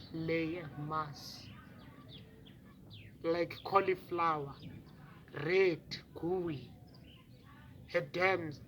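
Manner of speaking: quiet, halting account with long pauses; hushed horror. Acted. Witness describing the injured baby, hushed horror.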